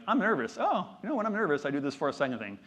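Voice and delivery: mock nervous. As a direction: play up being nervous, half-joking. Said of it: "that was just me kinda going like".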